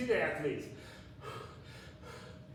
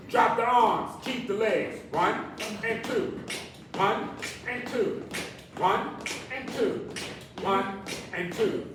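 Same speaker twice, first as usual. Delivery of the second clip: aerobics instructor; 3 semitones higher than usual. Acted. Calling moves.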